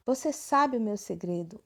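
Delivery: "Você sabe o meu segredo?" said as a surprised, admiring exclamation. Shown as a demonstration. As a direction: exclaim it with a little wonder. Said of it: "um ponto de exclamação no final".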